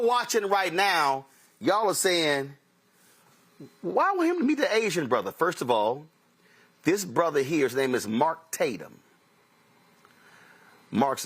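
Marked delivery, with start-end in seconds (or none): 3.8-5.3 lightly voiced skeptical viewer, higher pitched; a hint of a puzzled onlooker asking; mock doubtful viewer.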